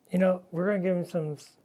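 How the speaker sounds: talking around a paintbrush in mouth; words muffled by a brush held in teeth. Real, not acted. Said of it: "I got a brush in my mouth".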